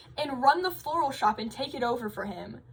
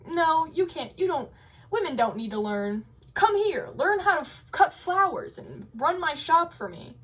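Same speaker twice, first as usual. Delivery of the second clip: stern father; 5 semitones higher than usual. Retold or imitated. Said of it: "Her father was like".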